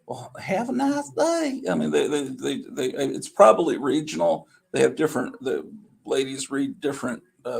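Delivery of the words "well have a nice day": high, slow, drawn-out checkout machine voice. Retold or imitated. Imitating the Dollar General checkout voice, high and slow. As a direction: mimic the store's talking till, high and slow. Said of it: "a little voice that says".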